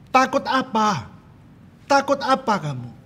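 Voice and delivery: very high, loud angry challenge; bentakan ayah. Retold or imitated. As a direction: snap back at a frightened child. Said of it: "suaranya Daddy yang keras". (membentak keras dengan nada tinggi)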